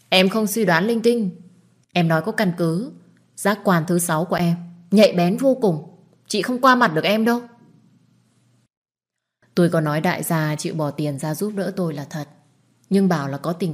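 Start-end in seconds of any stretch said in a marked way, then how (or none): 0.1-7.4 mildly heated, self-assured insistence; insistent retort. Acted. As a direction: argue back, sure of your instinct. Sister insists her suspicion is right.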